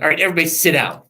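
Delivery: quick command breaking into a laugh. Retold or imitated. Jesus telling the crowd of five thousand to sit, laughing. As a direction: rattle it off while cracking up. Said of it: "Like the five thousand".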